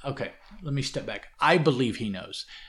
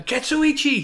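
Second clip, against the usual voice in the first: much higher and louder, a full exasperated yell; 9 dB louder than usual. Retold or imitated. Usagi yelling the name at the forgetful servant. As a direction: bellow the name in frustration. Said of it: "he yells again".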